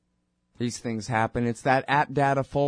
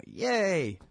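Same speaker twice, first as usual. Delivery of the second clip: mock gleeful voice; 4 semitones higher, 4 dB quieter, slower than usual. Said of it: "and I go".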